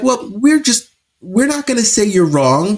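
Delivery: high-pitched noncommittal imitation; mock evasive. European countries staying out of the war, mock evasive. Voicing NATO countries avoiding sides.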